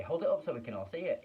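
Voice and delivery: high, loud call over the crowd; shouted from the crowd. Acted. Crowd member shouting to see the ticket, high and loud. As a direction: shout to be heard at the back.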